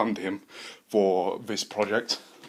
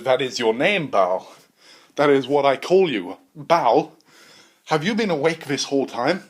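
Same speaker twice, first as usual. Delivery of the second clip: scientist voice; 3 semitones higher, 6 dB louder than usual. Acted.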